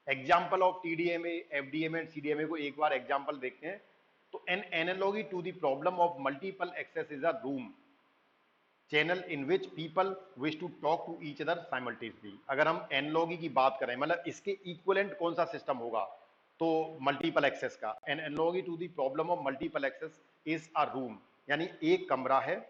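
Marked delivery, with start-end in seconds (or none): 4.5-12.3 slow, careful reading of an English definition; slow slide reading. Acted. Reads English slide slowly. 18.1-21.2 slow, careful reading of an English definition; slow slide reading. Acted. Rereads slide sentence slowly.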